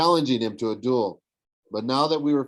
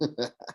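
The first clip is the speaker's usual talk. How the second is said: chuckle; 8 dB quieter than usual. A narrator's reading. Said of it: "Luke chuckled".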